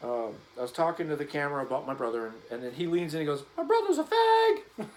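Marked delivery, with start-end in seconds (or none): 3.6-4.9 hammed-up manly shout, much higher and slow; imitating brother's exaggerated tough-guy yell; mock macho voice. Brother leaning into camera, mock macho shout. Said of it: "And he said it in the most masculine voice possible".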